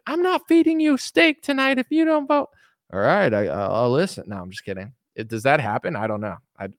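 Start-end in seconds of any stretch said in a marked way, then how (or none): 0.1-2.5 bossy wife. Acted. Wife threatening husband. 2.9-4.2 lower, resigned husband voice; meek husband. Acted. Husband caving to his wife, low and resigned.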